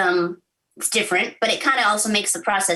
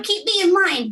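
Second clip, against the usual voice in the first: hopeful plea; 10 semitones higher than usual. Retold or imitated. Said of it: "I'm like".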